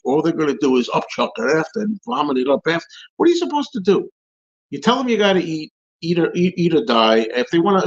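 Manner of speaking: high-pitched, exasperated rant that keeps building; heated rant. Real, not acted. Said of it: "here's another rant".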